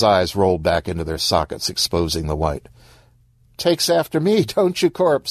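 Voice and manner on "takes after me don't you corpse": high, happy lilt. Acted. Monique boasts fondly of her sister's kid, happily. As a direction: chirp it proudly, pitched well up. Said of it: "said Monique happily".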